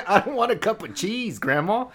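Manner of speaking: high, laughing, loud mock confusion; laughing mock mishearing. Son laughing as he mishears grandma. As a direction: giggle through the misheard word.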